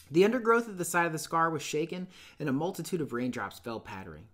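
steady, measured read-aloud narration; calm literary storytelling voice; story narration. Acted. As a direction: read the novel to the class like an audiobook. Narration resumes.

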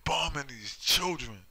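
high, slow imploring plea; mock pleading cry to stop the bombing. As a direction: beg them to stop, voice lifted. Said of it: "people are pleading for them".

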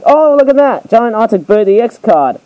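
high, thrilled burst at a rare pull; sudden delight at spotting the card; excited discovery. Real, not acted. Spots another rare card.

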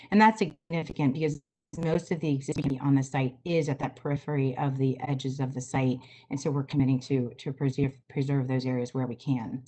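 choppy, glitchy call audio; breaking-up video call line. Real, not acted. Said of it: "your audio is breaking up just a bit".

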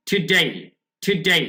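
"today" said as tu-DAI, second syllable drawn out; modelled pronunciation. Shown as a demonstration. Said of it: "এরকম করে বলবেন".

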